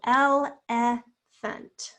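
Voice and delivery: elephant very slowly, full short E in the middle; elephant in syllables. Shown as a demonstration. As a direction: break elephant into three drawn-out parts. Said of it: "I can definitely hear it".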